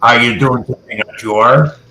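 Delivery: side-of-the-mouth impression, lightly done; Prime Minister Chrétien. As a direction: mimic a lopsided-mouthed politician. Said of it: "he'd talk like this".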